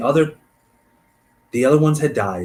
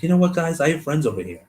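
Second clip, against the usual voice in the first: tag; 7 semitones higher than usual. Acted. Voicing one friend persuading the others.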